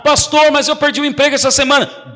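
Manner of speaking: a hint of a distressed member; worried church member. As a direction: play the anxious believer.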